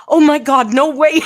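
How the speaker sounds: high, loud shocked squeal, imitating her; excited disbelief. Funeral director realizing she watches the channel, excited squeal. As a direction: squeal it like a starstruck fan.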